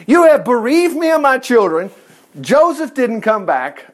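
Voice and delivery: lightly voiced anguished lament; mild acted panic; panicking father. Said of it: "Jacob's panicking".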